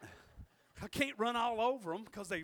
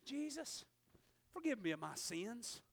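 much softer, retold plea for forgiveness; humble prayer; 6 dB quieter than usual. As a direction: drop the volume into a simple prayer. Voices his own prayer of repentance.

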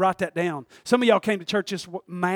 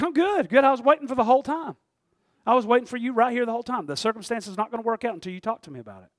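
breezy acted reply; 5 semitones higher, 4 dB louder, faster than usual. Acted reply of God, waiting.

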